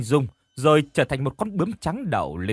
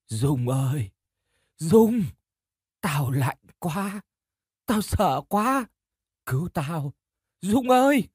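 slow, wavering ghost cry, rising high at the end; a cold, frightened spirit begging for help; ghostly plea; 5 semitones higher, slower than usual. Acted. Drowned friend's ghost begging Dung to save her, wailing. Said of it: "Trúc bắt đầu khóc nấc lên".

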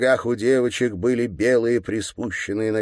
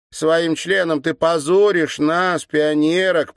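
put-on high, slow, loud girlish reproach; scolding girl; 9 semitones higher, 6 dB louder than usual. A narrator's reading. Girl scolding the governor, high and slow. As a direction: shame him like a strict little pioneer.

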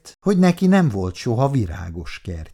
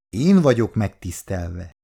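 ceremonious; 3 semitones lower than usual. Acted. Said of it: "mondta szertartásosan Péteri".

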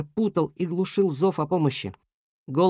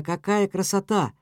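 plain reading voice

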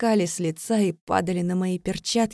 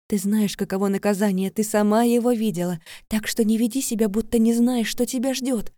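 menacing; 3 semitones higher, 4 dB louder than usual. Acted. Vika threatening punishment.

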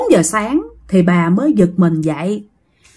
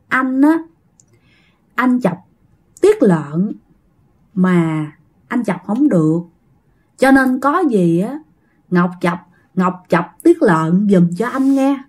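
put-on injured boy replying; 2 semitones lower than usual. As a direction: lightly voice a dazed boy, phrase by phrase. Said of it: "nó nói rằng á là". (giả giọng cậu bé nói ngắt quãng)

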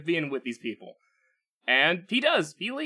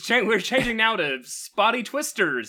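joking weather show host; mock announcer; 4 semitones higher, 4 dB louder than usual. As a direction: pitch the new show brightly.

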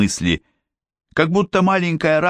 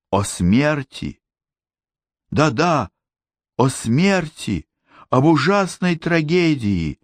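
quiet gurgling voice; 5 semitones higher than usual. A narrator's reading. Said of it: "тихим и каким-то булькающим голосом заговорил".

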